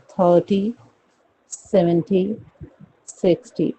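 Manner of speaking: "थर्टी, सेवेंटी, सिक्सटी" with a clear hard T; Indian pronunciation. Shown as a demonstration. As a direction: keep a true "टी" ending. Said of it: "और हम".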